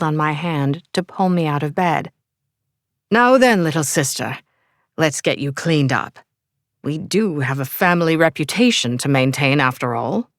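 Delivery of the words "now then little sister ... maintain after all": put-on English accent. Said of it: "with an English accent".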